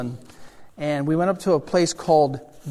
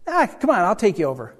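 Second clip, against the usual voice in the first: high, tossed-off "ah, come on"; retold old caretaker giving in; offhand offer; 4 semitones higher, 4 dB louder than usual. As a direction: wave it off, then offer casually.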